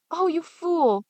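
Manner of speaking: high, sharp scornful snap; scornful scolding. Acted. Wife scolding her husband, scornful. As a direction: scold him as a fool.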